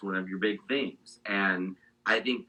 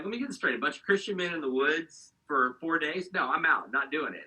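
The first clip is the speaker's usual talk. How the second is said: higher, mock-incredulous scoff; 6 semitones higher than usual. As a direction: scoff at the whole idea. Mocking idea of men's retreat.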